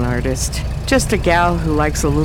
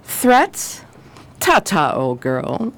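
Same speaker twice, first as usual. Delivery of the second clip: mocking taunt; 4 semitones higher, much slower than usual. Taunting the robbed dame, leaving.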